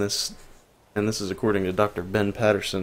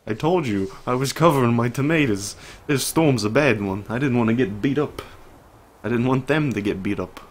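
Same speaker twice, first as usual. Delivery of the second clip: put-on lightly accented David, a touch defensive; unidentified put-on accent; 3 semitones higher than usual. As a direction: explain yourself in a loose, improvised accent. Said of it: "I don't know what this accent is".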